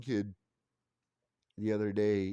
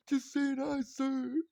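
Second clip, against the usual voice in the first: put-on high sweet child's voice; kid politely greeting; slower than usual. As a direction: say it like a polite little boy.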